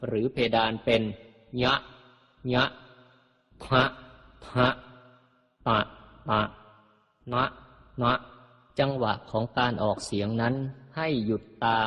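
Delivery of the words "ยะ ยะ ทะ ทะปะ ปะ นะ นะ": "ยะ", "ทะ", "ปะ", "นะ" raised into nose or palate; nasal or palatal. Shown as a demonstration. Teacher demonstrates Pali letters to readers, nasal-palatal "ยะ", "นะ". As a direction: lift each short syllable "ยะ", "ทะ", "ปะ", "นะ" toward the palate. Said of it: "ออกเสียงขึ้นนาสิกหรือเพดานเป็น".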